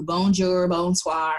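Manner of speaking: put-on bonjour and bonsoir in a flat American accent, no French sounds; bonjour, bonsoir, badly pronounced American-style. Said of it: "and said it like that".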